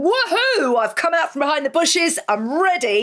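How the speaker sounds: playful high whoop as the colour yellow; excited cheer. Pretend. Host voicing yellow's triumphant comeback, excited whoop. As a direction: cheer like you've finally stepped out of hiding.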